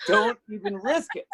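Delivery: high-pitched pleading at the screen; mock yelling. Host recalls yelling at her halftime show, mock yelling. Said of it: "I was yelling at the screen going".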